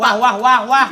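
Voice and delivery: loud melodramatic wah wah; overwrought soap opera gasps. Acted. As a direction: gasp it out like a soap star. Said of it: "Supaya dramaturginya ada".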